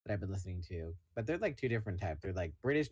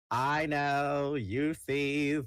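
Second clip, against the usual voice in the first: put-on old-timey voice; 3 semitones higher than usual. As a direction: sing like a 1950s crooner. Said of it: "In that old-timey voice".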